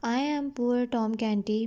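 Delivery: slow, careful reading of the English text; slow story reading. A narrator's reading. Teacher reading the English line slowly to her students. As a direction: read each word out slowly for the class.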